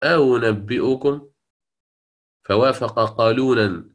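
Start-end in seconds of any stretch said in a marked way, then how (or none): 0.0-1.3 slow أنبئكم said again as an alternate reading; second recited variant. Shown as a demonstration. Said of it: "فيقرأ".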